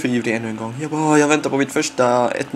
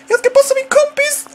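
higher, louder excited call; 4 dB louder than usual. Real, not acted. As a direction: pitch it up even higher, nearly shouting.

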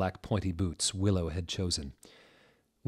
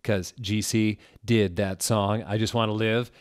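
louder, eager explanation; excited aside; 2 semitones higher, 4 dB louder than usual. Acted. Author excitedly explaining her joke, louder. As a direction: nudge the listener with the joke.

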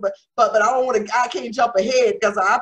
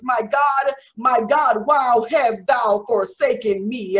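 mildly raised imitation of a loud cry; cried out loudly; 3 dB louder, slower than usual. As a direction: proclaim the cry in preaching voice. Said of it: "cried out in a loud voice".

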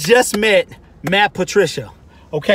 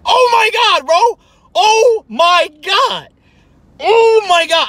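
starstruck excitement; 9 semitones higher, slower than usual. Retold or imitated. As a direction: gush like a starstruck fan. Retelling his starstruck reaction.

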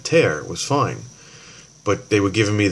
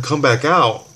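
higher, disbelieving echo; incredulous echo; 6 semitones higher, 4 dB louder, slower than usual. Retold or imitated. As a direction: repeat it back in disbelief. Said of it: "I'm like".

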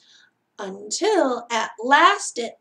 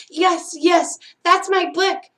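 higher, louder, delighted; bursting with relief; eager joy; 4 semitones higher, 5 dB louder than usual. Acted. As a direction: Mouse finding her book. Mouse recognizes her book.

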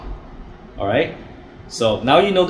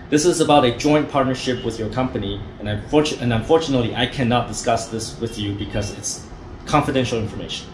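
steady, slightly lowered business voice; firm confidential tone; 2 semitones lower, 4 dB quieter than usual. Shown as a demonstration. Caller deflecting the receptionist, firm and confidential. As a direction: close the door politely but firmly. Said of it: "You say it like that".

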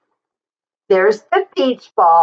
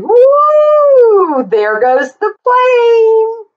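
airplane swoop; 11 semitones higher, much slower than usual. Pretend. Playing planes with a small child, high excited swoop. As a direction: swoop the voice up like a flying toy plane.

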